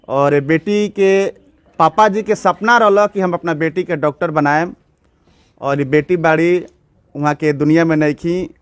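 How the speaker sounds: measured, sombre news report voice. Acted. Reporter tells viewers of the murdered cashier, in a sombre news read. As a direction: report the tragedy to camera with gravity.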